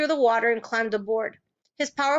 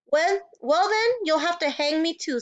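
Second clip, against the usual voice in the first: defiant; 5 semitones higher than usual. A narrator's reading. Defiant reply to sheriff.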